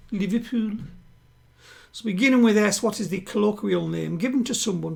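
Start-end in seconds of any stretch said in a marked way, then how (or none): 0.1-0.8 light put-on Scouse accent; a quick mock Liverpool twang. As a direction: say it in your best Scouse. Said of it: "It's my best Liverpool accent".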